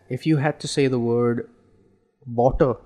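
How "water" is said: "water" in a regional accent. Shown as a demonstration. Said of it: "In a regional accent".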